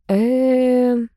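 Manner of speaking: drawn-out uncertain hum; hesitant mumble. A narrator's reading. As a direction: stall for words. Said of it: "пробормотала я".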